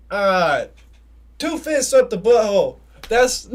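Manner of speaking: retold bold guess; loud blurt. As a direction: blurt it out proudly. Blurting his guess in story.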